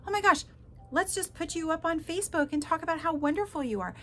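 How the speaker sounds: high-pitched imitation of effusive praise; mock gushing. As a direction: parody a breathless-with-praise love bomber. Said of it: "saying in messages and voicemails and emails".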